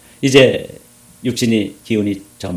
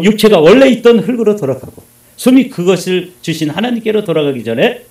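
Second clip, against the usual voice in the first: loud, raised preacher's voice; emphatic scripture recitation; 7 semitones higher, 7 dB louder than usual. Real, not acted. Preacher recites the verse to the congregation, loud and emphatic. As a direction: declaim the verse forcefully to the congregation.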